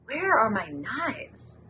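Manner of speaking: slow, drawn-out question; imitated roommate. Roommate asks after her missing knives, slowly imitated. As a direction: draw it out as the puzzled roommate.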